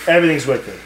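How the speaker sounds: imitating a Boston girl's accent; lightly mocked Boston accent on wicked. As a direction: say it like a Boston local. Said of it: "the Boston accent".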